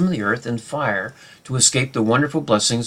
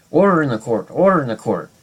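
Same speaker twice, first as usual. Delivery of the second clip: mock judge; 3 semitones higher, 5 dB louder than usual. Teacher playing a judge banging the gavel, loud mock call. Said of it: "like a judge in a court, hammering down with his gavel".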